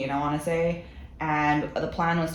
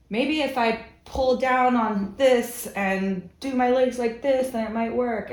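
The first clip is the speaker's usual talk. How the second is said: puzzled inner voice; 7 semitones higher, 3 dB louder, slower than usual. Retold or imitated. Retold own thinking, high far.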